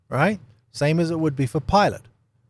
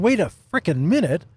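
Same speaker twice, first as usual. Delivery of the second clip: high, louder acted panic; freaking out; 4 semitones higher, 4 dB louder than usual. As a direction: back away from it in mock alarm. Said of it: "starts freaking out and going".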